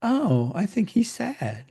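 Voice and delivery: lampoon someone who has no patience for tears; hammed-up impatient comforter; mocking callous dad. Mocking the tough-guy response to crying.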